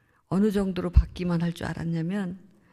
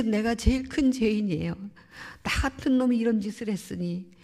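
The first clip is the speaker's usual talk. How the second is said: higher, louder impassioned self-blame, re-enacted; retold anguished confession; 5 semitones higher, 4 dB louder than usual. Son blaming himself for the others' behaviour, retold anguish. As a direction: press through his confession with imitated anguish.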